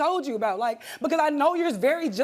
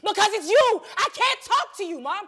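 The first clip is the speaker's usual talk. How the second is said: rising, fast and higher in pitch; heated; 3 semitones higher than usual. Real, not acted. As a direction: spill it out in real frustration. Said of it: "Look how you talking".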